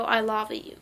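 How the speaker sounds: "love you" said as "lava you"; punning lava pronunciation. Retold or imitated. Singing-volcano line from a commercial, "love you" as "lava you". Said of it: "but it was like".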